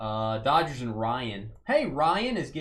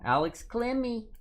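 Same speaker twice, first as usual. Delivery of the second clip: announcer name call; 9 semitones higher than usual. Pretend. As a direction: belt out the name like a ballpark announcer. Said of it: "I would say it just like that if I ever met him".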